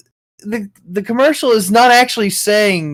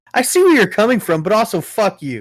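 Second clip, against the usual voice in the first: mocking echo; 4 semitones higher than usual. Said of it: "That's the meanest thing to say".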